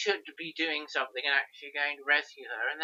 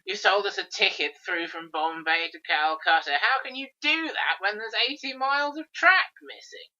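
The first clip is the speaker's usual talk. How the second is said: mock cross, rising much higher; indignant complaint; 5 semitones higher, 4 dB louder than usual. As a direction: tell off the ticket man, indignant. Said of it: "Rigadon's having a go at the guy".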